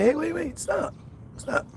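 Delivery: high-pitched "hey, wait, wait"; retold interruption. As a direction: cut them off, high then dropping.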